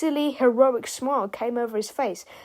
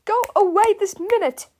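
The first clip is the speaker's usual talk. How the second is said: high, scolding shout; commanding cry; 10 semitones higher, 8 dB louder than usual. A narrator's reading. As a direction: order them off like naughty pupils. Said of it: "she cried".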